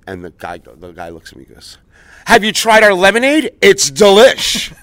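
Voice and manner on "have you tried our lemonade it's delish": high, loud, overly sweet server; chirpy cashier voice. Retold or imitated. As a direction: sell the lemonade like a cheery cashier. Imitating Chick-fil-A employee.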